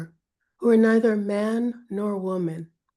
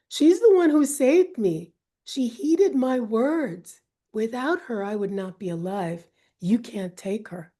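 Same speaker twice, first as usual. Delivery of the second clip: impassioned plea; 2 semitones higher than usual. Acted. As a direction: fight for her servant. Inanna defends her servant.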